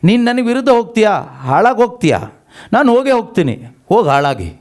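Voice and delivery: fast, high, angry rebuke; angry God. Retold or imitated. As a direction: scold the stubborn child, fast and high. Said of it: "ಅಂದ್ರೆ ಈ ಥರ". (ಕೋಪದ ವೇಗದ ಗದರಿಕೆ)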